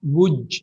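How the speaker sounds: "would" as "wudge"; drawn-out "would" closing in "dge"; linked J form. Shown as a demonstration. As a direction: end "would" on a J sound. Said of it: "we can't say it".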